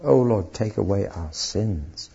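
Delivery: slow, earnest plea; preacher modelling the true prayer, humble and sincere. Shown as a demonstration. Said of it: "That's the kind of prayer he wanted".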